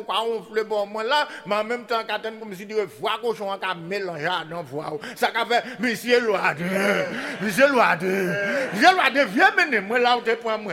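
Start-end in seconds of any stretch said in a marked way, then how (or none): 5.8-10.7 laughing holler of the refrain; calling out. Acted. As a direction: shout the name like a far-off call. Refrain called out again.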